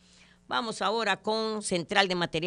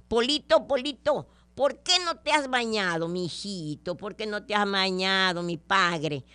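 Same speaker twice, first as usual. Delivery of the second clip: nagging mother. Acted. Mother asking Polito why he hasn't bathed, nagging. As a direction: call the boy in to scold him. Mother scolds son in joke.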